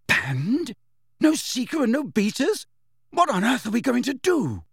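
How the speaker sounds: high, despairing questions; hollow dismay. A narrator's reading. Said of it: "said Angelina in a hollow voice".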